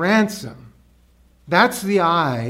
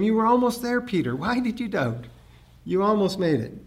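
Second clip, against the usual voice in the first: gentle teasing; 3 semitones higher, faster than usual. Retold or imitated. Jesus kindly chiding Peter after the rescue, gently. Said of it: "Jesus only had to reach".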